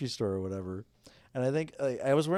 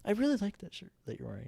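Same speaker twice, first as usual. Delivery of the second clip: put-on high, quick little-girl voice; pitched-up, hurried kid voice; young girl; 8 semitones higher, 4 dB quieter, faster than usual. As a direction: imitate a girl blurting a compliment. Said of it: "she was just like".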